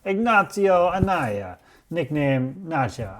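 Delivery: put-on Italian accent. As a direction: ham up an Italian accent on the name. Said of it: "he said a Spanish name in an Italian accent".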